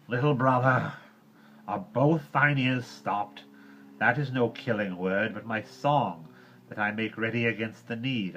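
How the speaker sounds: savagely. Acted. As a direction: bite the words, fiercely. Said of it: "Mowgli spoke rather savagely".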